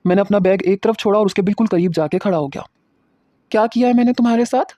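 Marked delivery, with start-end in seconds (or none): 3.5-4.7 higher, demanding in anger; angry question. Acted. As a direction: confront her furiously. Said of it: "میں نے بڑے غصے سے پوچھا". (غصے سے پوچھنا)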